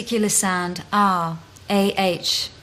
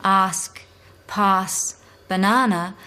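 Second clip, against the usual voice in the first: Australian accent; slower than usual. Shown as a demonstration. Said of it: "If you asked an Australian".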